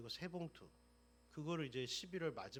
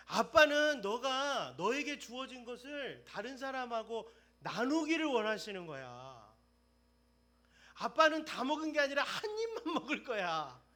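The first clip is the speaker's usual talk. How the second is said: high, loud, fervent preaching; mother's lesson turned into a fiery sermon; impassioned preaching; 8 semitones higher, 11 dB louder than usual. Acted. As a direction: preach it with fire. Preaching at full force.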